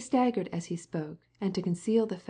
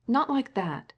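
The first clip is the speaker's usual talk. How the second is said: sharp, higher and louder rebuke; cross; 6 semitones higher, 4 dB louder, slower than usual. A narrator's reading. Invalid scolds Varenka for arranging her plaid badly, crossly. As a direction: snap at her impatiently. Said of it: "she said crossly to Varenka".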